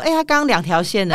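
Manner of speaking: breezy offhand retelling; casual tone. Retold or imitated. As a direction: toss it off lightly. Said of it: "一派轻松说".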